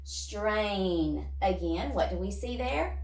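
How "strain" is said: said fast. Shown as a demonstration. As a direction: Strain said quickly as one word. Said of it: "Say it fast".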